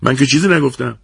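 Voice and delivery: high-pitched, worked-up denial; boiling over in self-defence; heated protest. A narrator's reading. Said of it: "من هم جوش آوردم و هلش دادم و گفتم".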